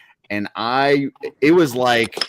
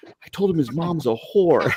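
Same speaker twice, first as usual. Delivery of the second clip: laughing confession; 8 semitones higher than usual. Retold or imitated.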